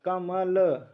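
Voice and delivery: कमल said in separate syllables, ka, ma, la; split into letters. Shown as a demonstration. Teacher splitting a word for students, कमल syllable by syllable. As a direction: break कमल up sound by sound. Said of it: "उसको वर्ण विच्छेद कहा जाता है".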